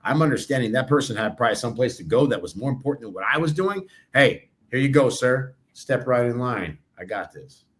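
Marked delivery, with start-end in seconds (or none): 4.1-7.7 calm gracious. Retold or imitated. Calmly letting someone in line.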